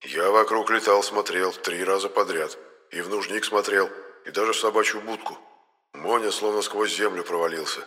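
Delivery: soft, businesslike little ghost; a ghost quietly reporting his search; lightly voiced ghost.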